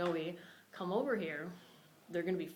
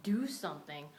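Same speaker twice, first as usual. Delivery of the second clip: voiced inner scream. Her instincts urging her to act, mock screaming. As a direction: push each urging out, a restrained scream. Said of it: "instincts just were screaming".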